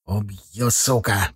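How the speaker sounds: low, soft threat through teeth; spat through teeth. A narrator's reading. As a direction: grind the words out menacingly. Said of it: "процедил он".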